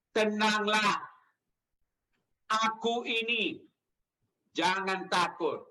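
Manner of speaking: measured phrases with long pauses; slow reassurance. Shown as a demonstration. Preacher has congregation repeat Jesus's words, slow reassurance. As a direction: lead listeners gently through each calming phrase, slowly.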